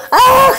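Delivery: high, loud burst of frustration breaking into a laugh; mock yell of exasperation, half laughing; frustrated cry. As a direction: let out a sudden yelp of exasperation. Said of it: "Y yo".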